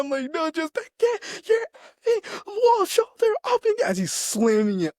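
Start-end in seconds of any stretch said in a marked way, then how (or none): 0.3-3.8 high, loud mock sergeant shout; hammed-up drill sergeant bark; imitating drill sergeant. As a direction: yell it like a sergeant shoving a recruit. Drill sergeant slamming wall.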